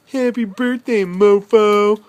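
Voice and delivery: playful shout. Retold or imitated. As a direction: belt out the cheeky greeting. Reading the cheeky box message.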